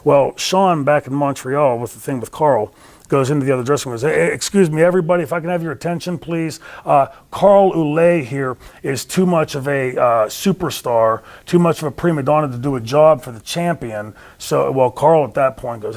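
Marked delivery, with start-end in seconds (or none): 4.1-14.1 raised-pitch public address; retold mock announcement. Wrestler addressing the dressing room about Carl, mock announcement. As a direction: call the room to attention, imitating a troublemaker.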